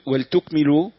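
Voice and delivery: ولتكملوا said waltukmilu, lam without a vowel; silent-vowel lam. Shown as a demonstration. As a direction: close wal- before -tukmilu in ولتكملوا. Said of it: "بإسكان الله".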